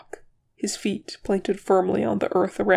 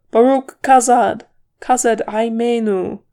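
war cry; 3 semitones higher, 7 dB louder than usual. A narrator's reading. Dwarf leaping into battle, shouting a war cry. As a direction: roar it as you charge. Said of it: "With a great cry of".

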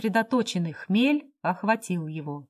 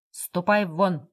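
barked order; slower than usual. Acted. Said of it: "гаркнул".

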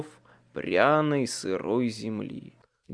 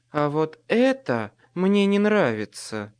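hissing fury; 3 semitones higher than usual. Acted. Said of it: "со внезапной яростью прошипела она".

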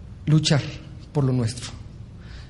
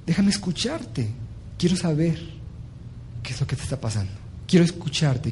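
calm your son down with patience; calm patient father; 6 dB quieter than usual. Acted. Father answers calmly and tenderly. (padre sereno y tierno, hablando bajito)

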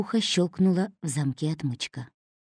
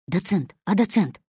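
confused call. A narrator's reading. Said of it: "растерянно позвал Косой".

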